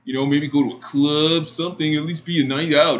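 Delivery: mock cringey persuasion; cringey suitor. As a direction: plead like an awkward guy pushing for a date. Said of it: "in the most cringiest voice".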